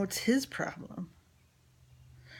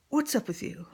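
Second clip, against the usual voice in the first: imitating father, whispered; 7 semitones higher, 4 dB louder than usual. Father voiced in story.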